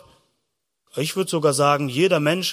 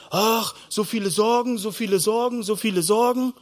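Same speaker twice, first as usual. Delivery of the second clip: higher, repetitive mock moaning; worried lament; 4 semitones higher than usual. Preacher imitates people walking through life worrying, lamenting. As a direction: sigh and fret on a loop.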